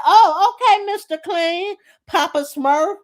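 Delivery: high mock-sweet put-down; mocking insult. Angela mocking Pinky's looks.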